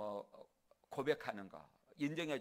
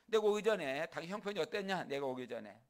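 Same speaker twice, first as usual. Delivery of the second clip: raised, challenging retort; Jacob, emboldened; 3 semitones higher, 4 dB louder than usual. Acted. Jacob talking back to a weakened Laban, emboldened. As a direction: press the questions home with confidence. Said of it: "당당해져가지고".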